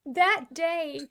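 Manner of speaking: choked up, pushing the words through; crying with gratitude. Real, not acted. Telling her co-host about grateful tears, crying. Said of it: "You're crying now".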